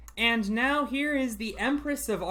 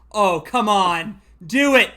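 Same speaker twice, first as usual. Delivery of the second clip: louder and louder, cheering; cheering shout; 3 semitones higher, 16 dB louder, slower than usual. Real, not acted. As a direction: yell him on, building each time. Cheering competitor on live.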